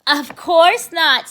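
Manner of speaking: sly. Acted. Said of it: "said Arthur".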